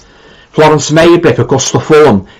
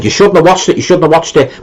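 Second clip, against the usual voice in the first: higher-pitched mock motherly scolding; imitating mum; 6 semitones higher than usual. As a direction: imitate a mother telling off her child. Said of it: "Yeah, my mum said".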